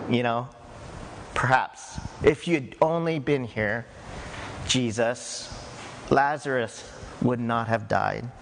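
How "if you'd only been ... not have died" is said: blaming tone. Retold or imitated. Mary to Jesus after her brother died, quiet blame. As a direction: lower and softer, gently reproachful. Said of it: "Maybe almost in a blaming tone".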